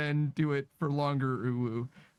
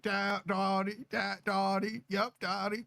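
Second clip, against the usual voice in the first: put-on Southern accent; 3 semitones higher than usual. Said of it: "That's Southern".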